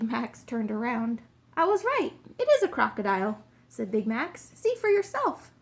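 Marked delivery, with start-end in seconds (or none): 1.6-3.4 loud, high cry of being right; excited triumph. A narrator's reading. Detective turns and finds the crocodile, excited triumph. 4.5-5.5 high, loud, triumphant urging; excited triumph. A narrator's reading. Detective urges the king to look, loud and triumphant.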